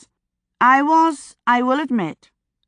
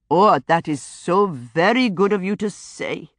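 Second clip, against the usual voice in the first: a touch of a whimper in a lightly voiced Indian accent; understated grateful whimper; mild whimper. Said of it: "he whimpered".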